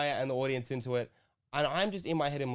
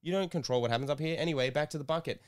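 higher, mock-dismissive host jab; Tony's voice; 4 semitones higher, faster than usual. Tony dismissing the comic to the audience, higher mocking. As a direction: brush him off like an annoyed host, pitched up. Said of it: "and Tony goes".

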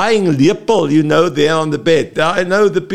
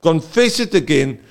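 sincere confession; 4 semitones higher than usual. Shown as a demonstration. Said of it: "put the emphasis on it".

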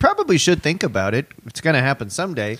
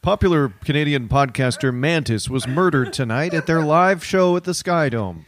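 news anchor. Pretend. Mock news report of murder.

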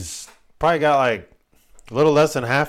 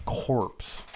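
breathy whisper of corpse; 3 semitones lower, 10 dB quieter than usual. Shown as a demonstration. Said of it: "Say it again".

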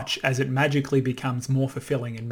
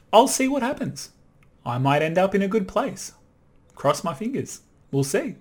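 carefree shrug; 6 semitones higher than usual. Retold or imitated. Voicing the default drifting attitude.

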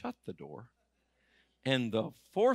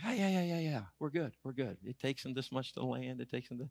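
hushed brush-off; 7 dB quieter than usual. Retold or imitated. Son brushing off a messenger during the service, hushed. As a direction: wave it off under your breath.

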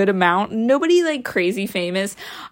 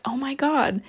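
whisper; 4 semitones higher, 5 dB quieter than usual. Retold or imitated. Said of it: "and I'm like".

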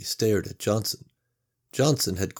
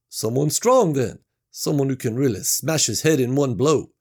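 higher, matter-of-fact worker; blunt coworker Mac; 5 semitones higher, 5 dB louder than usual. Acted. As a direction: say it plainly, a bit grim. Mac proposes a strong man.

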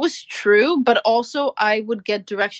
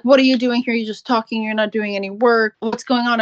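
mock yell; 3 semitones higher than usual. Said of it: "started screaming at me".

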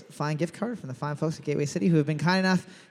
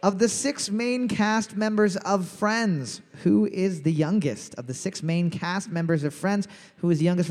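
quiz host read; 3 semitones higher than usual. Acted. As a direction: announce it like a pub trivia host. Reads trivia question as host.

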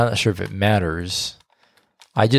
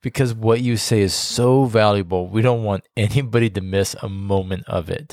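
sarcastic. Acted. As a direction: lay the praise on thick, teasing. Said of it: "You're being sarcastic and it's rude".

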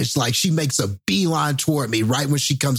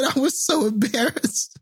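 mimicking coworker; 12 semitones higher than usual. Coworker quoted in story.

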